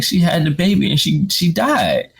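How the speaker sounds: high, strained tearful repeat; imitating his own crying. Repeating the news to his wife, high and crying. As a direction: wail it like a man in tears. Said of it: "sitting there crying".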